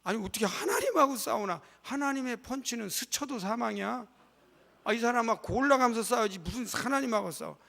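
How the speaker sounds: loud joking protest from the pulpit; excited joking outcry. Real, not acted. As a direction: exclaim in mock disbelief. Joking exclamation to congregation.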